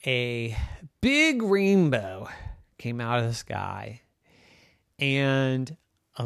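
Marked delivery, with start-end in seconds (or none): 1.0-2.3 slow wonder. A narrator's reading. Storyteller wonder.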